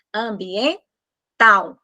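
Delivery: ambiental drawn out, final L sounding like U; teacher stretching ambiental; slow demo. Shown as a demonstration. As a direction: say ambiental slowly, ending in a U sound. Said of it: "Vale o que eu estou ouvindo".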